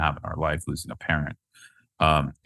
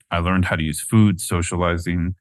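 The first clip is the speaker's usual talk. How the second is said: getting teary. Real, not acted. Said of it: "Sorry, I'm getting teary".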